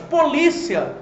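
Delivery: polícia with the middle LI stressed; polícia, strong second syllable. Shown as a demonstration. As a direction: hit LI in polícia, then a short -cia. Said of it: "é uma paroxítona terminada em ditongo".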